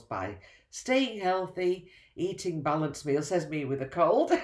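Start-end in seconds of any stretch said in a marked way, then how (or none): 3.3-4.3 laughing. Real, not acted. Self-mocking aside about her cold.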